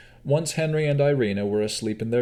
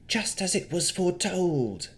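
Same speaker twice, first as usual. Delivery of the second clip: Navara's light try at a spooky seer, higher; a hint of Madame Eva's foretelling tone; 10 semitones higher than usual. Navara copying the fortune-teller, lightly spooky. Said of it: "attempted to sound like Madame Eva".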